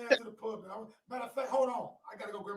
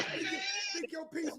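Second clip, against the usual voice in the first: high strained snap; irritated snapping; 11 dB quieter than usual. Real, not acted. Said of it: "you sound kinda irritated".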